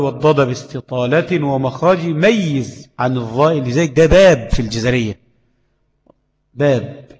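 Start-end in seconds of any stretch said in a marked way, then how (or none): 0.0-3.5 slow chanted verse with a rise at the end; poem recitation. Shown as a demonstration. Teacher reciting Ibn al-Jazari's verse to students. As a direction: recite the verse slowly, line by line. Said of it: "بقوله".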